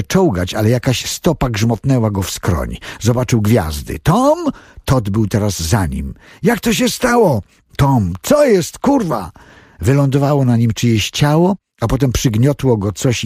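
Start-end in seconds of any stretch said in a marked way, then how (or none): 4.0-7.4 panicked. Acted. Todd calls to Tom amid the crash, panicked high cries. 7.8-9.3 high, slow frightened cry; panicked. Acted. Todd calls to Tom amid the crash, panicked high cry.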